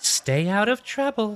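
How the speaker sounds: very high put-on woman's voice. Game narrator voicing a character the players hear speak, in a woman's voice. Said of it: "in a woman's voice".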